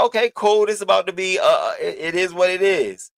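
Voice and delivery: high, eager, hyped-up inner voice; excited quote. Retold or imitated. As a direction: replay the rush of realizing the pot is big. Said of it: "So I'm, I'm like".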